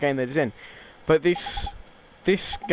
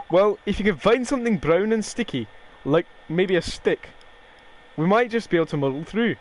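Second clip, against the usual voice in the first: put-on unsure stab at an Irish accent; amateur Irish-accented character read; badly faked accent; 3 semitones higher than usual. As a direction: fumble through a fairy's Irish accent. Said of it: "I really can't do accents".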